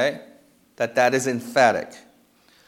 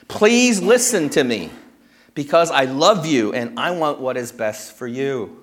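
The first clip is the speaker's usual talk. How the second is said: Paul's pleading appeal. Retold or imitated. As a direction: voice Paul begging his converts to listen. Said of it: "He makes this personal appeal".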